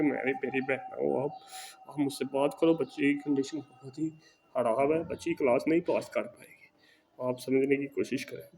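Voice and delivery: soft, gentle coaxing, like to a sister; said lovingly. Retold or imitated. Tutor coaxing the wary teacher on a call, softly gentle. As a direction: ease her worries kindly and quietly. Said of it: "میں نے اسے بہت پیار سے کہا".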